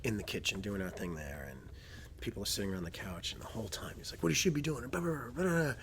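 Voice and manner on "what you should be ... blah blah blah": high-pitched know-it-all heckler imitation; rising, louder mock complaint with blah-blah filler; mock critiquing. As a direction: mimic an armchair coach nagging the screen. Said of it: "He's like, just critiquing Weidman".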